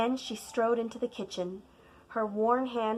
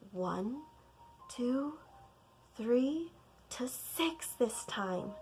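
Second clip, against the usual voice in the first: softer, slow count; hushed counting; 2 semitones higher, 6 dB quieter, much slower than usual. Acted. Scared child counting in the dark, softer. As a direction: count under your breath.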